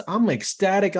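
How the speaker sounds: high, loud, thrilled retelling; bursting with excitement; ecstatic. Retold or imitated. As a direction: gush about the flood of leads.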